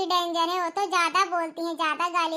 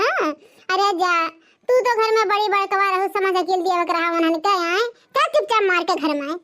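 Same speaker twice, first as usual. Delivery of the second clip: put-on louder, lamenting old mother-in-law; scolding mother-in-law; 2 semitones higher, 7 dB louder than usual. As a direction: wail and scold like a shocked village mother-in-law. (बहुओं को डाँटती सास, ऊँची आवाज़ में विलाप)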